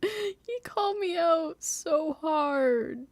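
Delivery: high, slow mock-outraged whine; indignant wail. Real, not acted. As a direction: stretch it out in disbelief. Laughing disbelief.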